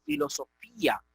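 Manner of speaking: filosofía as filo-so-FÍ-a; tilde stress. Shown as a demonstration. Teacher showing what the tilde does, filo-so-FÍ-a. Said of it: "es la, la tilde".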